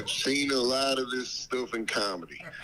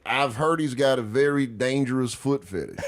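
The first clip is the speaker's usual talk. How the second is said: Dave Chappelle voice; 3 semitones lower, 6 dB louder than usual. Pretend. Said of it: "call this lady as Dave Chappelle".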